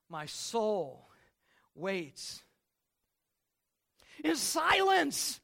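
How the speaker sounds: slow, swelling on in silence; dramatic scripture. Acted. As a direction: draw out in silence, rising to it. Reading the psalm.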